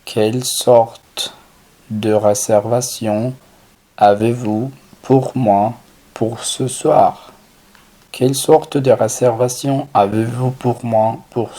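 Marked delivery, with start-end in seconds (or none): 0.1-7.3 slow French phrase, paused between chunks; measured teaching pace with clear breaks; slow, segmented model. Shown as a demonstration. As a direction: say it chunk by chunk for a learner.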